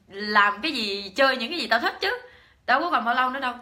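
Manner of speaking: put-on loud, high, indignant old aunt snapping back; angry scolding. Old aunt scolding her niece for preaching at her, loud and indignant. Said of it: "bác nói là".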